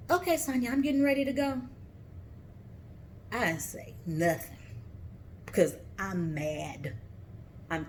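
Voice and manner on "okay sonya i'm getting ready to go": mimicking the other woman. Imitating the other woman leaving.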